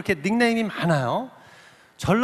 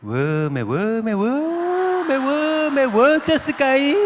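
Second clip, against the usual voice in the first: rising, drawn-out Jeolla dialect cries of wonder; Jeolla audience exclamations; 5 semitones higher, 3 dB louder, much slower than usual. Retold or imitated. Gwangju audience cheers at the drawing show, rising Jeolla cries. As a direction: play the amazed Gwangju crowd in thick Jeolla dialect. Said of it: "그렇게 취임새를 넣어줍니다".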